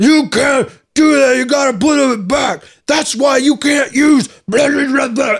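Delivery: shouting loudly.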